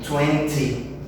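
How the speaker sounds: Twenty with the full T, British style. Shown as a demonstration. Teacher shows the British twenty, full T. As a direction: say Twenty with all the beauty of a British T. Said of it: "com toda a beleza do seu sotaque britânico".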